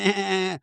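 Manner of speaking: short mock laugh; imitated laughing. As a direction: fake someone else's giggling fit. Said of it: "you're laughing".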